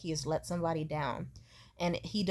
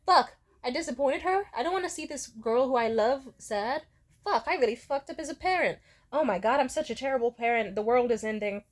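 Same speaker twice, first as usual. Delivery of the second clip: higher-pitched mock self-blame; imitated mom spiraling; 4 semitones higher than usual. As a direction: act out a mother panicking over her failings. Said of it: "she'd be like".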